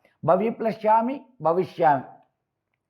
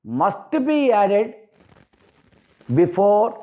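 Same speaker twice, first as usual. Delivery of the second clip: very slow, word by word, lifting before; slow emphasis; much slower than usual. Shown as a demonstration. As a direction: drag out must be added before for the students. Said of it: "teacher stressing the key rule". (నెమ్మదిగా ఒత్తి చెప్పడం)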